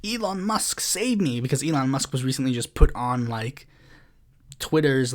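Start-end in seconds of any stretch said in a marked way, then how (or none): 0.0-1.4 mock plea. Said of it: "getting mad and saying".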